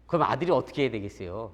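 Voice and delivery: normal talking voice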